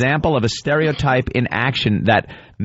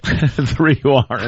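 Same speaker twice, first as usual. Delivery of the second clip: laughing; 2 semitones higher than usual. Real, not acted. Laughs repeating the joke.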